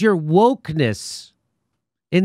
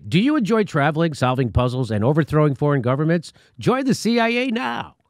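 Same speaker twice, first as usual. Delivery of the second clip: fake recruitment ad.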